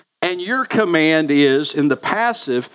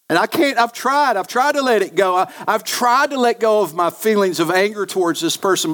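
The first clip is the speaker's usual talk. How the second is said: struggling believer; 4 semitones higher than usual. Retold or imitated. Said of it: "voicing a struggling listener".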